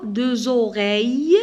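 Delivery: "Deux oreilles" linked with a z sound, drawn out; liaison demo. Shown as a demonstration. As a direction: join "Deux oreilles" slowly as deu-zoreilles. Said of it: "on a la liaison entre le X et le O".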